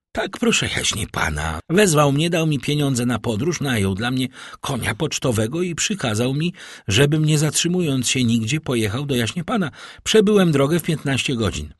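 a hint of a hurried messenger; servant reporting to master. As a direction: report eagerly as a lightly voiced servant.

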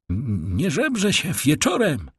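high sharp cry of "nie żebrze się wieczorem" with a falling "wieczorem"; stableboy calling out. Acted. Stableboy driving the tramp away, calling out high. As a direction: shoo the beggar off, pitched high. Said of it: "zawołał stajenny".

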